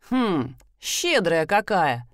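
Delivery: slow, amused teasing; sly ironic remark; teasing drawl. Acted. Thief teasing. (насмешливо)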